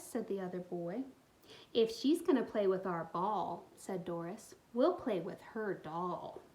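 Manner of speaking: put-on expressive read-aloud for young kids; storybook reading. A narrator's reading. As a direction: tell the story warmly to little listeners. Reads picture book aloud.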